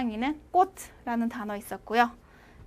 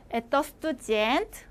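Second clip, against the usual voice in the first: slower, each syllable of 에떠 스투젠트 laid out clearly; slow repeat for learners. Shown as a demonstration. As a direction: spell out 에떠 스투젠트 slowly for students to copy. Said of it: "제가 두 번씩 읽을 테니까".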